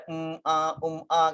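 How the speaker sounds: mock filler sounds, lightly done; casual imitation of a hesitant speaker; imitated hesitation. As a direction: demonstrate someone hesitating with little ums. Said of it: "dia punya ada hesitation".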